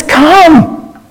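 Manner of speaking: high, open, encouraging call; encouraging invitation. Acted. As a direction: urge them to come, voice lifted. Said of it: "He's encouraging".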